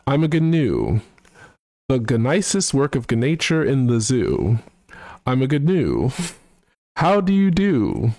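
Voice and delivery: hoity-toity British gent voice, sung-spoken; mock posh British, half singing a song; British accent. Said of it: "try and also do his, uh, accent".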